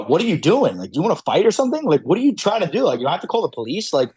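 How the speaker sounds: fed-up challenge, as acted out in a story; retold exasperation. Falconer confronting the poacher who won't leave, exasperated.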